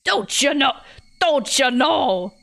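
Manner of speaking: put-on old lady calling out insistently; emphatic British old woman; old person, British. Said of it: "all my old people voices turn British".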